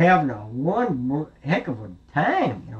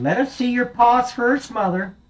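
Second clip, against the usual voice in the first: little goat; 11 semitones higher, 4 dB louder than usual. Acted. Little goat answers wolf.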